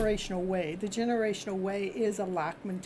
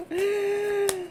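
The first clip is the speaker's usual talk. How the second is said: loud laughing mock protest; a high, laughing shout of no; 12 semitones higher, 5 dB louder than usual. Reader to client, imitating her refusal: loud laughing no. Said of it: "like you going".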